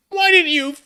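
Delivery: high, loud, slow hammed-up yell; shouting. A narrator's reading. Draco shouts at Ebony for hiding it. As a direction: shout it at her like a betrayed boyfriend. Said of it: "he shouted".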